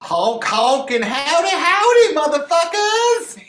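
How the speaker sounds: high, loud cowboy clown howdy; silly clown. Acted. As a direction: yell it like a wild clown. Clown character bursting in.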